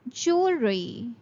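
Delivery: jewelry said JOOL-ree; teacher shows jewelry without a w sound. Shown as a demonstration. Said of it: "It will be pronounced as jewelry".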